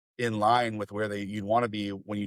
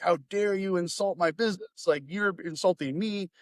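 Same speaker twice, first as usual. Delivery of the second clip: higher-pitched imitation of an offended owner; mock indignant; 8 semitones higher than usual. Business owner reacting to a scathing review, mock indignant. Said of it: "then they would get angry".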